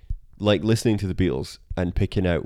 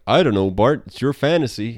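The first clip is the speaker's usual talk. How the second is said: deadpan Lincoln; 3 semitones higher, 5 dB louder than usual. Retold or imitated. Lincoln answers Bart.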